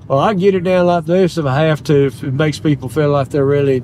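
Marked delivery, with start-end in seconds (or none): 0.1-2.1 southern accent. Shown as a demonstration. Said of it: "You can probably hear my accent".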